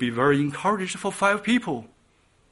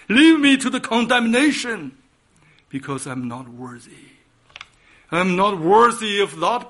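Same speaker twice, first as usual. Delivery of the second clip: anguished confession; 3 semitones higher, 6 dB louder than usual. Retold or imitated. Peter confessing his sin to Jesus, anguished outcry. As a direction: cry out your guilt. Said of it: "like Peter's word".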